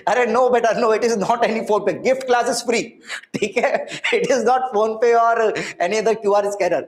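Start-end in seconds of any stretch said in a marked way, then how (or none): 2.0-6.8 laughing. Real, not acted. Student asks if QR is PhonePe.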